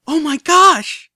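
high, loud squealing cry, drawn out; delighted squeal. A narrator's reading. Filly greets the visitors, squealing with delight. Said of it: "squealing in delight".

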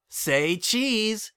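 put-on high, bouncy kid voice; young colt voice. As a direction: play an eager little colt. Child cheering.

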